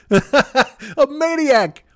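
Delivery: high drawn-out laughing word. Real, not acted. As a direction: stretch it out through laughter. Relishing the word.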